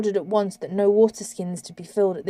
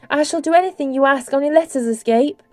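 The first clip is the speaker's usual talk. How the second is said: begging; 5 semitones higher, 5 dB louder than usual. Acted. Derna begging.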